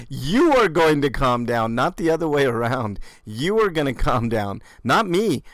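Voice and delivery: mock-authoritative and deliberate; mocking the cop. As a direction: parrot the officer's command, leaning on each word. Mockingly parrots the cop's order.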